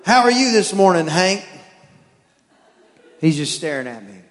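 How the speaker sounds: dad chatting up his dog; talking to a dog. Acted. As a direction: coo at the dog like a baby. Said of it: "conversation like the dogs won't talk back".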